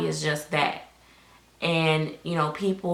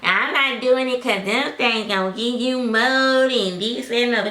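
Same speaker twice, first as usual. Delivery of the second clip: mock artist excuse; 5 semitones higher, 3 dB louder than usual. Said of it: "The first thing they say is".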